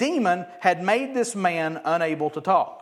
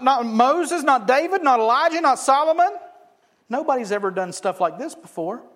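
higher and louder, building to a peak; mock excited crowd; 8 semitones higher, 7 dB louder than usual. Preacher mocks the crowd's overblown amazement, building loud. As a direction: ham up the breathless hype.

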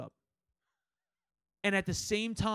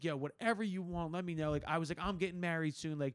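reassuring. Retold or imitated. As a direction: retell calming a bride, gently. Soothing the bride in the story.

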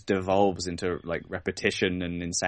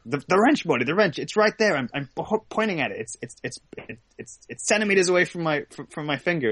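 exasperated mock Rick; 8 semitones higher, faster than usual. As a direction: point at it in disbelief.

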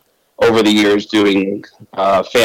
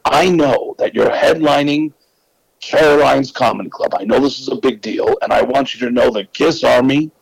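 Gene Simmons impression; 3 semitones higher than usual. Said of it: "Gene actually said".

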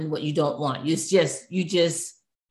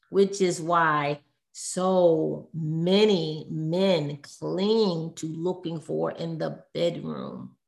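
gentle. Real, not acted. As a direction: ease carefully into a hard truth. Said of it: "try to say this gently".

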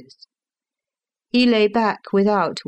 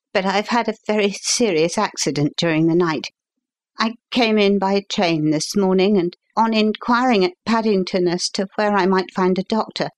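put-on a touch higher, quick and urgent young man; lightly voiced agitated young gentleman; lightly voiced young visitor; 3 semitones higher than usual. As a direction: hurry through it like an anxious young engineer.

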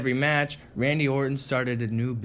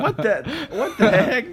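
silly high voice; 9 semitones higher than usual. Pretend. Reacting in put-on voice.

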